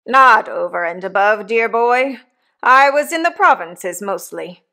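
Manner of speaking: hint of a coarse old convict talking to his boy; rough convict. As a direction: give the old convict a bluff, hearty push. Convict Magwitch voiced in story.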